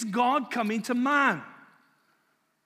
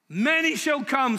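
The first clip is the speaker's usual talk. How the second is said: excited proclaiming; 5 semitones higher than usual. Real, not acted. Preacher exclaiming scripture.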